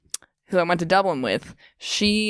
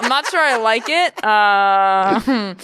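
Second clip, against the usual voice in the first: higher, laughing mock complaint; 4 semitones higher, 4 dB louder, slower than usual. Real, not acted. Teasing the host about the story, laughing. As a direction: laugh while protesting.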